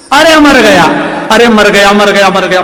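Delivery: high, loud cry of pain from a sudden blow; husband yelling in pain. Acted. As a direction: wail that he's been killed, hammed up. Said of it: "पति चिल्लाए".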